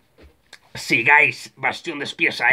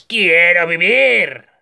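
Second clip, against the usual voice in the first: high, loud, drawn-out mock scream; imitated desperate cry; 4 semitones higher, 5 dB louder, slower than usual. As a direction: cry out like a trapped victim, hammed-up. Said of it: "está diciendo a gritos".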